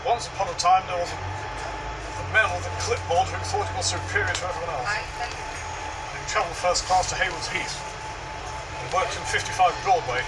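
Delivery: slow, deliberate storybook telling; mock bedtime story. Mocking the clipboard man with a slow bedtime story. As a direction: read it out like a bedtime tale, slowly. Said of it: "read you a bedtime story from his clipboard".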